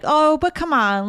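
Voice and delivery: high-pitched mock pleading. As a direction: coax them like a friend bargaining. Acts out pleading for a break.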